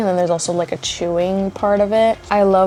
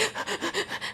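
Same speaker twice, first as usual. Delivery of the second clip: mock panic; 12 semitones higher, 13 dB quieter than usual. Panics when waiter asks to order.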